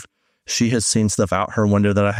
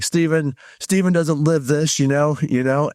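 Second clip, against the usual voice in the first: higher-pitched, mildly mad protest; retold indignant venting; 6 semitones higher than usual. Complaining that the pastor doesn't live this, mildly indignant. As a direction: protest about him with mock exasperation, pitched up. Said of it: "so I'd get so mad at you".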